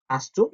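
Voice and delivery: "hast du" joined into one word, "hastu"; smoothly elided "hast du"; linked pronunciation. Shown as a demonstration. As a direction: run "hast du" together without a break. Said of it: "같이 그냥 연음으로 처리되는 거".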